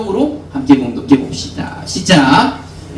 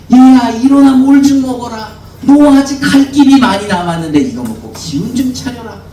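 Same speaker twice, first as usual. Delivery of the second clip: louder, coaxing call to get up and eat; urging angel; 4 semitones higher, 4 dB louder than usual. Acted. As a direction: rouse a tired man gently but firmly. Angel urges Elijah to eat. (지친 엘리야를 깨우는 천사, 조금 큰 소리로 다독이며)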